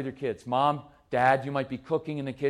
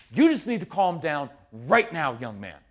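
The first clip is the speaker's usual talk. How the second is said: put-on stern parent ordering a child, only mildly raised; mock parental yelling. Parent ordering upset son to settle, mock-stern. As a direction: scold firmly, dropping off on the last words. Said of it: "'cause I'm yelling at them to calm down".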